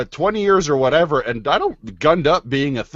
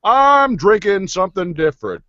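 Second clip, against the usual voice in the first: higher-pitched fake Caribbean accent; a butchered Caribbean lilt; bad Caribbean accent; 5 semitones higher than usual. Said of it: "butcher a horrible Caribbean accent".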